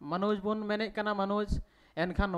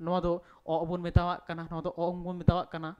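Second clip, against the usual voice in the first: letter name ᱚ drawn out very slowly; unhurried classroom model of the letter name; slow teaching demo; much slower than usual. Shown as a demonstration. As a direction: say it slowly so learners can follow. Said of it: "ᱚᱛ ᱵᱚᱱ ᱢᱮᱛᱟᱣᱟᱜ ᱠᱟᱱᱟ".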